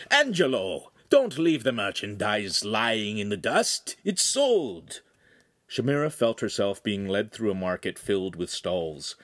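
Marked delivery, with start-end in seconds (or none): 0.1-5.0 shouted. Acted. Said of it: "and then shouted".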